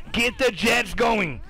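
drawn-out slow call to get going; slow hype call. Real, not acted. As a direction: stretch each word like a hype man. Hyping up player.

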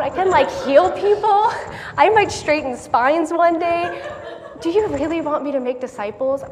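high, loud, laughing plea to God; half-joking protest, laughing through it; laughing doubtful prayer. Acted.

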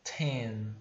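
Ten with a puffed t; breathy t. Shown as a demonstration. Teacher showing the aspirated t, puff of air. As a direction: blow out the t of Ten. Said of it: "tem um arzinho batendo na sua mão".

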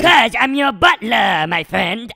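slow, lightly put-on British accent; a hint of British butler. Sidekick claiming to be the butler, mock British accent. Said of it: "Why are you talking with a British accent".

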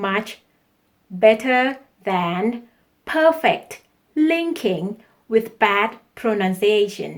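very slow, deliberate, carefully articulated English; slow classroom dictation voice; slow English lesson read. Shown as a demonstration. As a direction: spell out each word for the learners. Teacher reads English tip slowly.

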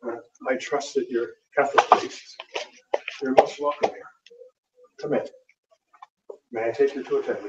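imitating a polite British host; lightly put-on British accent. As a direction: welcome them in a mild British accent. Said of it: "in a British accent".

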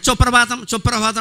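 సుప్రభాతం garbled as chopprabatam; mispronounced suprabhatam. Shown as a demonstration. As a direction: say సుప్రభాతం with a "cho" opening. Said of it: "సుప్రభాతం అనమనే".

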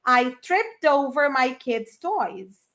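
very slow, spaced-out repetition; very slow model. Shown as a demonstration. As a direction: drag it out for repeating. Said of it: "Você fala trip over". (repetição bem lenta)

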